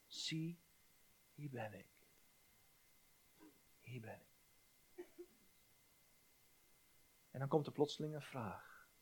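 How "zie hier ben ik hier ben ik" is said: hushed whisper of surrender; soft whispered vow to the Father; whispered prayer. Acted. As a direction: breathe the words like a private prayer.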